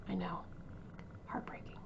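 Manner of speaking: very soft, fading near silence; barely holding back tears; choked up. Real, not acted. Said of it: "but I am so emotional".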